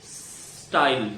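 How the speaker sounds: स्टाइल slowly, s first; slow style drill. Shown as a demonstration. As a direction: practise the s then tile. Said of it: "पहले आप स की practice करो". (धीमे स्टाइल का अभ्यास)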